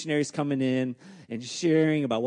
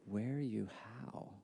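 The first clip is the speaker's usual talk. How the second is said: put-on heavy Thai accent; 12 dB quieter than usual. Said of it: "the heavy Thai accent".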